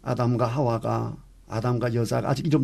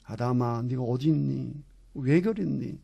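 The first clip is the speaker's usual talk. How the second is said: tender, sorrowful; 4 dB quieter than usual. Shown as a demonstration. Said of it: "정말 자상한 음성으로, 안타까운 음성으로".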